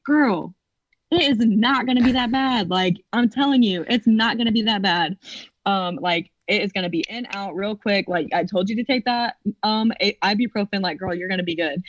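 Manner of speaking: calm her down, imitating the doctor; a hint of a chummy gynecologist; reassuring doctor. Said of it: "he was like".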